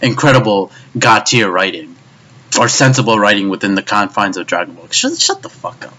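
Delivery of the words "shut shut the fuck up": angry. Real, not acted. Snapping at imagined fans.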